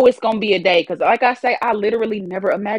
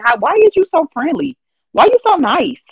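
mocking locals; 8 semitones higher than usual. Mocking people's question in city.

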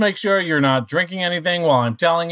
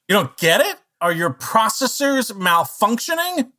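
higher, rising disbelief; incredulous; 9 semitones higher than usual. Acted. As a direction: question them as if they must be broken. Incredulous that joke failed.

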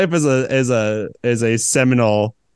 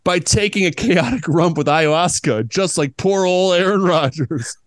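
croissant voice; 4 semitones higher than usual. Acted. Croissant character voice.

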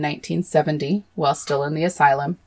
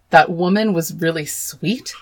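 That woman was really sweet echoed in disbelief, rising at the end; incredulous repeat. Real, not acted. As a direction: throw the quote back, appalled. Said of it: "Cue me screaming again".

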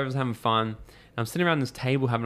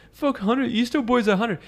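loud mocking taunt; 11 semitones higher, 6 dB louder, slower than usual. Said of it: "the other goes".

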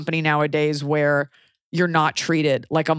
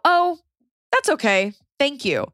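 quoting herself; 8 semitones higher than usual. Retold or imitated. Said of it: "And I go".

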